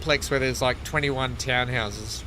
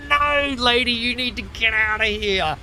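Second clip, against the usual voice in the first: exasperated retort; 8 semitones higher than usual. Retold or imitated. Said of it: "And I was like".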